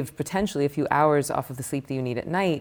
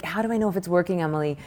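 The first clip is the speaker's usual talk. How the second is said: higher-pitched imitation of a sceptical student; raised-pitch, put-on doubting voice; mock doubtful questioning; 4 semitones higher, faster than usual. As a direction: pester the teacher for proof.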